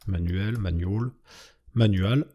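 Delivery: English word in a heavy French accent; real French accent on English; thick French-accented English. Real, not acted. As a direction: try "manual" with a clumsy French accent. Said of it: "avec mon accent anglais au, coupé au couteau".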